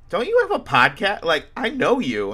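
high, loud eager fan asking; a fan lighting up with recognition; excited recognition. Retold or imitated. Fan at Knucklemania spotting the podcaster, high and eager.

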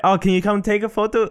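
attempted French accent. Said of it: "I don't know how to do a French accent".

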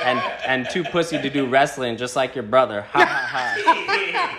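Bryn impression. Reading the text's jab at his brother, imitated jeer. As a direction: lightly imitate a jeering texter, drawing out the laugh. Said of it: "In my best, uh, Bryn impression".

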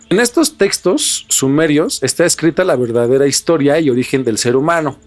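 measured, even documentary read over music; documentary narration. Acted. Host reads the documentary script to viewers, in steady narrator voice. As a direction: narrate the mystery like a history channel voiceover.

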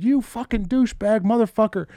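high mock-furious curse; imitated cursing. Coworker still yelling insults in the office, mock rage. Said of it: "I still hear this dude".

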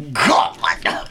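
hushed whispered sermon start; mock whisper. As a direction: whisper the opening, then get told to go loud.

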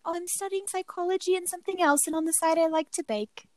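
light, high-voiced young baker quote; sweet student. Host mimics her favorite college contestant, sweet and high. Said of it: "she was just so sweet".

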